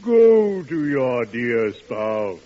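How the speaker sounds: slow mock-solemn advice. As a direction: intone it like a sermon.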